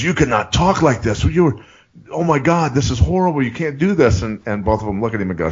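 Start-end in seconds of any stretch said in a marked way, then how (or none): 0.0-4.2 high-pitched retold outrage; imitated freak-out. German teammate protesting the joke, imitated as freaking out. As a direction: raise the pitch, mimicking a man appalled. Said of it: "freaking him out".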